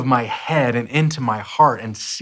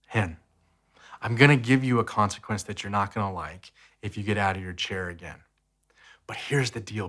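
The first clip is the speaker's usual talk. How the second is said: tender heart-to-heart. Retold or imitated. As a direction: reassure a four-year-old in your lap. Dad's tender heart-to-heart with son.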